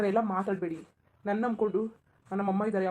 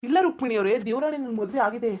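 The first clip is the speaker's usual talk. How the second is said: louder, urgent denial; loud protest; 4 dB louder than usual. Acted. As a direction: cut her off with a loud no. Man insists he is married.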